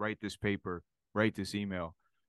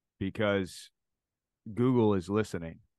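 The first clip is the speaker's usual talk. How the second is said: normal talking voice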